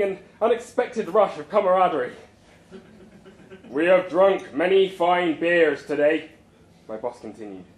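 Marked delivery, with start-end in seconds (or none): 3.7-6.3 orator. Acted. Boss gives speech to crowd.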